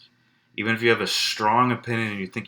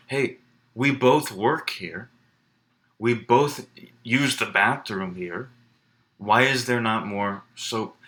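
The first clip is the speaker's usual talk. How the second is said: persuasive appeal; slower than usual. Pretend. Arguing with a colleague about soap.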